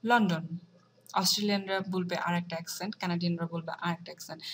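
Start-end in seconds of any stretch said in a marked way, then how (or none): 0.1-0.4 লন্ডন said the American way; American pronunciation. Shown as a demonstration. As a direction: give লন্ডন an American accent. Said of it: "কিন্তু আমেরিকানরা বলবে".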